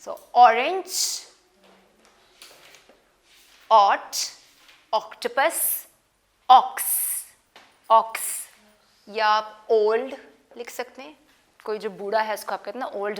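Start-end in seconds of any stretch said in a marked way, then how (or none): 0.0-8.2 each O word stretched, loud and slow; "orange", "ought", "octopus", "ox" hammered out slowly; phonics drill. Shown as a demonstration. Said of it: "oh sound".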